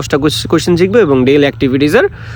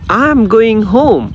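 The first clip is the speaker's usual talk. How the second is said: higher, very slow teacher read; slow model English; 5 semitones higher, much slower than usual. Shown as a demonstration. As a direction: spell out each English word slowly, rising high. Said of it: "accent দিয়ে দিয়ে পড়বেন". (ধীরে, উঁচু স্বরে শিক্ষকের উচ্চারণ)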